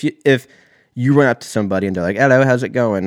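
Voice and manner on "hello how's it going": higher, louder mock English greeting; badly faked English accent. Imagined stranger greeting you, badly faked English accent. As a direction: put on a dubious English-or-Australian accent. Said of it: "That was English for sure".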